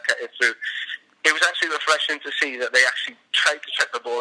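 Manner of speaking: slurred words, several pints in. Real, not acted. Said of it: "slurring his words".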